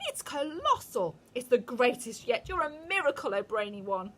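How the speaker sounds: high, loud gushing witches; excited crowd. A narrator's reading. Witches cheering the Grand High Witch, high and gushing. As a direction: gush with admiration.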